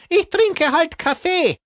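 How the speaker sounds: high, scratchy smoker's voice. Acted. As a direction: croak it like a heavy smoker. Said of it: "mit kratziger Stimme".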